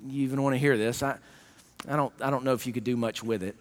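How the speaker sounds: low, soft, hesitant mumble; low soft unsure stammer; timid prayer. Retold or imitated. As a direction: pray like you doubt he can help. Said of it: "coming to God saying".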